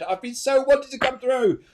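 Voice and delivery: a light, high imitation of a longing mother; voicing a spirit mother. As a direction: lift into the mother's voice. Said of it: "She said".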